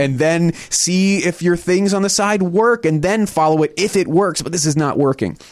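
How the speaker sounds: hammed-up lecture from the sharks; scolding sharks. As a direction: sharks telling the couple to get a real job. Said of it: "they're all like".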